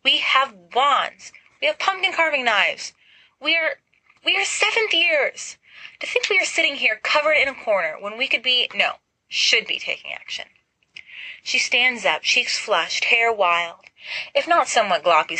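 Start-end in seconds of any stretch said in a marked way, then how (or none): 0.0-10.5 high, urgent, exasperated pep talk; Lily urging James to stop cowering and fight; rallying. Acted. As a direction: rouse them into action.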